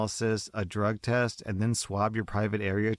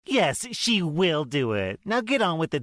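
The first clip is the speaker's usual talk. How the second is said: spitting it out; 8 semitones higher, 4 dB louder than usual. Acted. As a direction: bite the words out at the nurse. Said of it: "the mother spits out at me".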